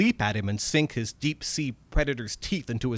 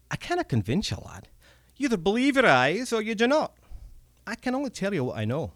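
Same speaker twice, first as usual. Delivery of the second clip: higher, wary goblin with a Scots lilt; a cagey old creature scolding the lad; old Scottish goblin; 8 semitones higher than usual. Acted. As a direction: goblin reproaching the young American. Red cap firm.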